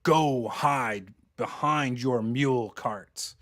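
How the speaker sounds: slow, measured command with little volume; half-hearted yell, each word drawn out; mild mock yell. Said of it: "yells at you".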